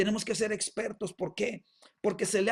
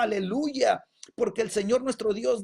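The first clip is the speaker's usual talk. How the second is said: raised, declaring preacher voice; powerful proclamation; 2 semitones higher, 4 dB louder than usual. Acted. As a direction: declare it firmly as a mighty heavenly voice. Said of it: "esta voz potente, potente, que declaraba". (proclamación potente)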